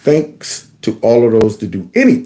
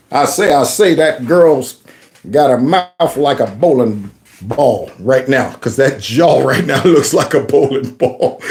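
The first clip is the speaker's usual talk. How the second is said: Foghorn Leghorn; slower than usual. Retold or imitated. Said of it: "laughing about the Foghorn Leghorn".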